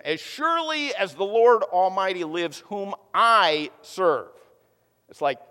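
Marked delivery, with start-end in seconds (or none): 0.0-4.3 sarcastic. Retold or imitated. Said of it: "comes back with more sarcasm".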